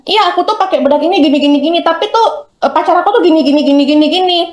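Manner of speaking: lightly voiced girly vlogger chatting; mock beauty vlogger. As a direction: play a chatty makeup seller. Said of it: "sambil make upan ya".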